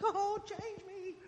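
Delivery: high, slow swooning plea; lightly mocking his own worship voice; mock worship cry. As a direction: ham up a tearful praise moment. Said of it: "I'm like".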